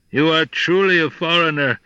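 lightly voiced mocking jackal; a touch of jackal scorn; sly yippy jackal. Jackal scoffs.

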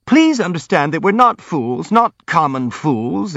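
squeaky. A narrator's reading. Hippolyte insists they are not fools, squeaking. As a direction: insist squeakily, stretching the end. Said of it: "squeaked Hippolyte".

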